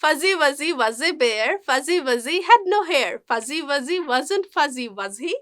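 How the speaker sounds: "Fuzzy Wuzzy" slow and connected, every Z clearly buzzed; slow tongue twister, voicing the Z in "fuzzy"; measured chant stressing the Zs in "Fuzzy Wuzzy"; Z sound drill. Shown as a demonstration. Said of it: "যা সাউন্ডটা perfectly উচ্চারণ".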